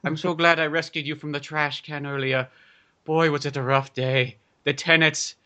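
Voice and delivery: lightly voiced old-world father; a touch of theatrical weariness; weary papa. Landlord tells his rescued boy about a rough day, mock weary. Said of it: "It's like".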